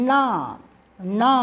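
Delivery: tongue curled to the palate on ணா; forceful retroflex ணா. Shown as a demonstration. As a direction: press out ணா as a strong retroflex "na". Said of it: "பலமாக உச்சரிக்க வேண்டும்".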